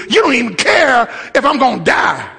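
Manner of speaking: imitating a panicked, accusing disciple; two-faced disciple turning on his master; mock accusation. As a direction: cry it out as a complaint.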